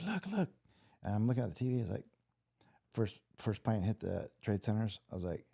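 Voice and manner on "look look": put-on German accent. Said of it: "very German accent".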